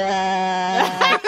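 mock cry into an electric fan; fan-wobble imitation. Judge mocking the singer's vibrato, wobbling fan voice. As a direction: hold a low, choppy "ah" like into a fan. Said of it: "gritar ahí enfrente de un ventilador".

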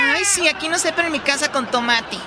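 lightly sing-song parroting of a pupil; mocking mimicry. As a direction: mimic the child's answer with mild scorn. Teacher parrots pupil's silly answer.

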